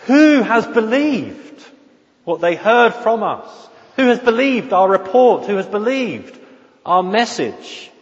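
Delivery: high, pained pleading questions; anguished prophet crying out. Shown as a demonstration. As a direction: plead as if heartbroken. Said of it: "It's a cry of anguish".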